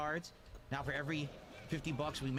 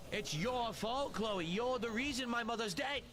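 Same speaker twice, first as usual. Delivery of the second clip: slow melodrama; 6 semitones higher, slower than usual. Acted. Dramatic accusation in character.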